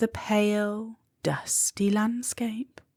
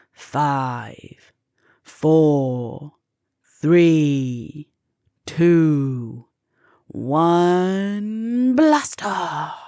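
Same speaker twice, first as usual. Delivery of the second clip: louder, building launch countdown; countdown shout; 3 semitones lower, 5 dB louder, much slower than usual. A narrator's reading. Molly counting down her own launch, loud and eager. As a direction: call the countdown to lift-off.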